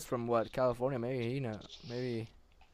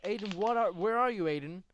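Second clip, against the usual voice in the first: mock alarmed shout; 5 semitones higher, 4 dB louder than usual. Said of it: "At the beginning, I'm like".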